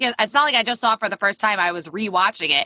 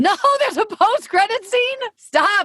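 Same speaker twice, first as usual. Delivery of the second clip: surprised; 13 semitones higher, 3 dB louder, slower than usual. Real, not acted. Learns of missed post-credit scene.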